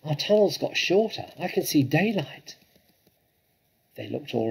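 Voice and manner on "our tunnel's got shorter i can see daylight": high-pitched, urgent little-fox voice; small fox. A narrator's reading. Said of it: "said one of the small foxes".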